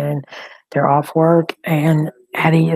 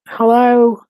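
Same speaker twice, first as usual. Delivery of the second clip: higher and louder, urgent "Hello"; anxious answer; 5 semitones higher, 8 dB louder than usual. Real, not acted. Grandmother answering her daughter's call, urgent. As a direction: grab the phone in relief and fear.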